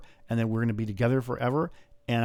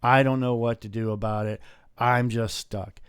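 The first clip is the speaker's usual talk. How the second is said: mock whining; 4 dB louder than usual. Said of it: "bitch and moan about".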